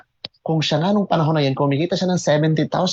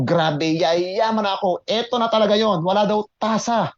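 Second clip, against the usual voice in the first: excited inner voice; 3 semitones higher than usual. Retold or imitated. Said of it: "Sabi ko".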